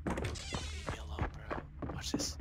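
very high slow squeak, far from own; squeaky high voice. Pretend. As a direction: stretch it out in a tiny squeaky voice. Dying, mock pleading.

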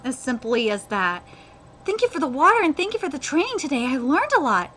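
earnest, animated dialogue reading; lightly acted storytelling voice; manga read-aloud. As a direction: read the characters' exchange with feeling.

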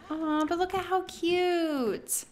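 high, drawn-out aww; slow high-pitched coo. Real, not acted. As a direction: gush sweetly over something cute. Gushing over the wedding scene.

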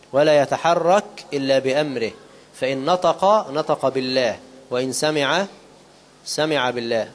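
deliberate, weighty reading of a spiritual text; slow down and let each phrase land; slow solemn recitation. Acted. (قراءة بطيئة خاشعة)

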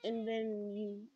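slow, fading mock-death whisper; dying whisper. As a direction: whisper it slowly like last words. Acts out dying after falling.

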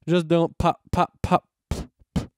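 little popped P noises into the mic; popping sounds. Real, not acted. Podcaster testing plosives on the microphone, playful popping. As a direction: puff out plosive pops.

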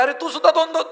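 mock surprise. Man seeing double turns to his friend, mock surprise. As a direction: play mild amazement, pitch lifted.

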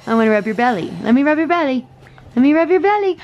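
high pleading puppy talk. Real, not acted. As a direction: coax the dog in a high sing-song. Wants to rub puppy's belly.

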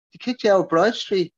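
a bold, challenging question. A narrator's reading. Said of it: "I asked boldly".

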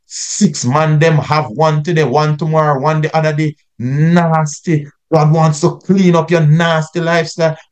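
a hint of a fired-up street-crusade preacher; lightly mocking crusade preacher voice. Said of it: "somebody in a crusade preaching and say".

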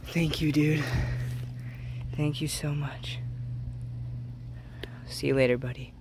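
soft, whispered gratitude; whispered thanks. Real, not acted. Thanking the fish softly.

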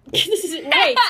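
laughing through the words. Real, not acted. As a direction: giggle it out, slowly. Laughs while hands hurt.

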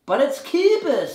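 slow, loud mock Australian; Australian accent. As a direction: stretch it out in Australian. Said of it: "as Dave's Australian accent".

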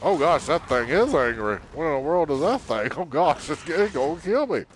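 mock panic. Real, not acted. Attacked by angry bug.

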